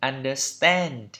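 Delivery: understand with an American "a" leaning toward "e"; American pronunciation. Shown as a demonstration. Teacher contrasting it with British English, American accent on understand. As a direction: say understand the American way, last vowel fronted. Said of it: "Còn trong anh Mỹ là".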